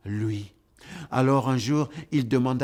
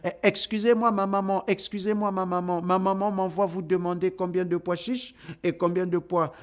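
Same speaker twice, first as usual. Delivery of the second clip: put-on flustered boy; 5 semitones higher than usual. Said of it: "lui dit".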